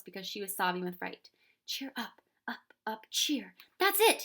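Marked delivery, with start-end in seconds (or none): 1.7-4.2 cried out. Acted. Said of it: "he cried".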